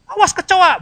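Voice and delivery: high, loud mock cry at a cockroach; mock panicked yell. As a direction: yelp in pretend fright. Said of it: "bukannya teriak". (teriakan pura-pura takut kecoa)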